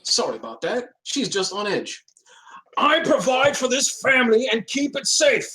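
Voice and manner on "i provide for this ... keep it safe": hushed mocking imitation of the wife; mock wife quote. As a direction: whisper her line like a nagging echo. Cat quotes wife mockingly, whispered.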